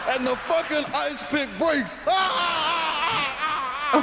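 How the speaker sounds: high, shouted punchline breaking into laughter; hysterical mobster laughter. Acted. Mobster telling how the weapon broke, high hysterical laughter. Mobster cracking up at own story.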